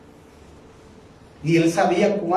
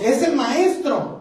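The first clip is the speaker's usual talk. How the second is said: awed recognition; 9 semitones higher, slower than usual. Acted. Disciples recognize Jesus.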